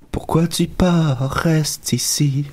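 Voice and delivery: breathy whispered plea. Pretend. Pleading lyric whispered.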